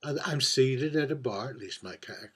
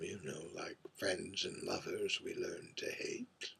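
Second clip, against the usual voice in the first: whispered; 5 semitones lower, 14 dB quieter than usual. Acted. Bitter aside about lovers.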